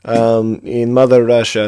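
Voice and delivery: put-on loud, slow Russian accent. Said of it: "read my email in a Russian accent, please".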